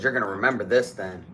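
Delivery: low robber's warning; retold threat. Robber's threat before stabbing.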